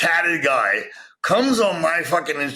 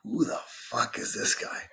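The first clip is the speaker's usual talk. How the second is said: stunned hushed quote; 4 semitones higher, 9 dB quieter than usual. Retold or imitated. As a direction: mutter it to yourself in disbelief. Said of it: "and I'm like".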